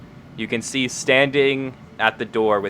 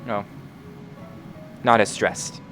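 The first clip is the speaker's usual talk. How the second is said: higher, quicker little robot man; little metal man voice; 5 semitones higher than usual. Acted. GM voicing the character, higher pitched.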